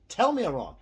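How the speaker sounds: high, loud dare to prove him wrong; loud challenge. Real, not acted. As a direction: shout the challenge at the viewers. Daring viewers to contradict him.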